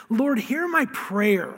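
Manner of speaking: slow, solemn psalm reading; scripture reading. Acted. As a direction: read the plea slowly. Pastor reads psalm aloud.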